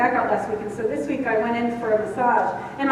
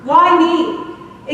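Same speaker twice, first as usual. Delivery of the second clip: exasperated outburst; 3 semitones higher, 5 dB louder, much slower than usual. Retold or imitated. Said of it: "It came out of my mouth".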